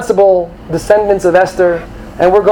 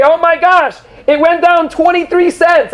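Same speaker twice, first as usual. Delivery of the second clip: much higher frantic gasp; mock panic; 10 semitones higher than usual. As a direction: play the panicking novice investor. Panicked investor quote.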